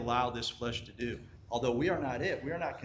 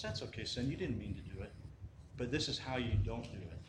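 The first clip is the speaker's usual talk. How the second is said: soft, forgiving reassurance; lightly voiced mother soothing her son; comforting mom; 3 semitones lower, 8 dB quieter than usual. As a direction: ease off, gently letting him off the hook.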